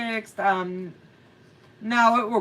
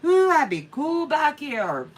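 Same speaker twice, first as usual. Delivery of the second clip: smug aunt; 6 semitones higher than usual. Pretend. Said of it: "you'll be saying".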